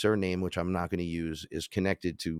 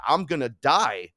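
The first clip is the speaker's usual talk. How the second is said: higher, slower, scared; terrified; 6 semitones higher, 4 dB louder, slower than usual. Retold or imitated. Facing Ra, he admits fear, higher and slow. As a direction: say it like you're sure you'll die. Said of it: "I said".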